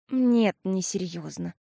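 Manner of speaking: slow, candid answer; honest admission. A narrator's reading. Sister honestly admits it was only comfort. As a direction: admit it gently. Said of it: "честно призналась Пиппа".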